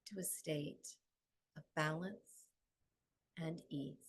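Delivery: measured, calm phrases with long pauses; guided meditation. Acted. Yoga teacher guiding the class home to balance, calm meditative delivery. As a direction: guide them gently inward, phrase by phrase.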